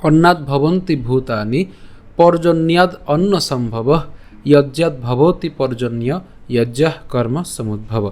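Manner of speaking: slow, even spoken recitation of the verse, no tune. Shown as a demonstration. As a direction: say each line slowly and plainly. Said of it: "আমি আবার বলছি".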